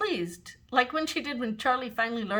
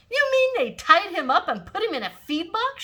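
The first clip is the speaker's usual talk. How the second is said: much higher, loud indignant question; outraged excitement; 10 semitones higher, 7 dB louder than usual. A narrator's reading. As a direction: sound horrified and thrilled. Imogene outraged about swaddling.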